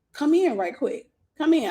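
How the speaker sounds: coaxing high voice of a pushy date; pushy guy. Retold or imitated. Date coaxing her into his house, high and pushy.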